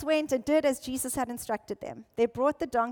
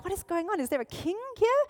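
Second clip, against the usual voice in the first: puzzled; 5 semitones higher, faster than usual. Retold or imitated. Townspeople voiced coming out of houses.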